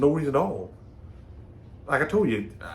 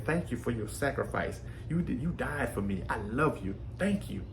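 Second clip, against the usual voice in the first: much softer, tender thanks spoken close to the ear; soft whisper to Jesus; 4 semitones lower, 7 dB quieter than usual. Retold or imitated. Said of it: "whisper in his ear".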